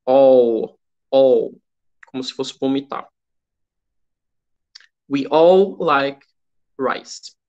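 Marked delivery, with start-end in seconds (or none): 0.1-1.5 all with the tongue curled back; all with a dark curled L. Shown as a demonstration. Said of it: "dobrar a língua e dizer all". 5.1-7.3 slow, with a dark L on all; slow teacher read; slow model sentence. Shown as a demonstration. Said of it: "Observe a pronúncia do all".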